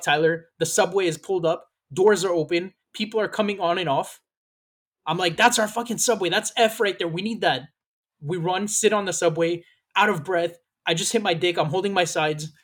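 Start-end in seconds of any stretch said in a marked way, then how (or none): 5.4-7.6 high, urgent rush; hurry, don't miss the train. Retold or imitated. Rushing to catch the train.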